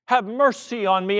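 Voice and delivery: measured, building cry for mercy; understated preacher's shout; acted shout. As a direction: call out in separate, insistent phrases. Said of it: "And he shouts it".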